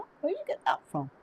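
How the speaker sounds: high, fast, astonished squeak of a surprised client; amazed client. Retold or imitated. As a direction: play the stunned client caught off guard. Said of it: "And you go".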